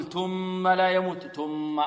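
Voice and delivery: slow chanted ثم لا يموت with ت; ta error. Shown as a demonstration. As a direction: recite تم with ت. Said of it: "البعض يقول".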